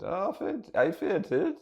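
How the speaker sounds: high-pitched Geordie-style woman; Newcastle accent. Acted. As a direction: come round surprised in a Newcastle accent. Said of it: "is she from Newcastle?".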